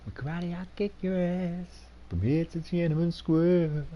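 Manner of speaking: put-on high, slow drunken tough guy; belligerent drunk. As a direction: slur out a drunken threat.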